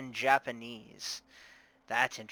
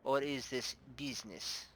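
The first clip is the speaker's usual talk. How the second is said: put-on softer Russian-accented probing question; 5 dB quieter than usual. Bar owner sizing up the investigator, Russian accent. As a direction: ask it coyly with a Russian accent. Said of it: "I'm doing a Russian accent".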